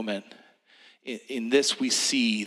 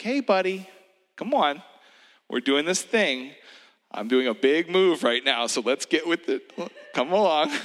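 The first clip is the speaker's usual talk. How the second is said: parent's encouragement; 4 semitones higher than usual. Retold or imitated. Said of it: "like a parent's encouragement".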